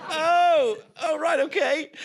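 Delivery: high-pitched, startled acceptance; taken aback. Retold or imitated. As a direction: react with mock surprise, pitch leaping up. Acts out his startled reaction.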